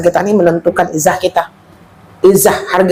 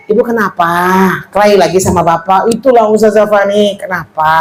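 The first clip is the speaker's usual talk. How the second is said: gentle soft tone. Shown as a demonstration. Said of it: "Coba tutur katanya".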